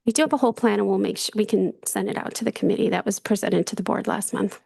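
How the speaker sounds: hoarse, scratchy voice; raspy voice. Real, not acted. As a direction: talk through an allergy rasp. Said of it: "I apologize for my raspy voice".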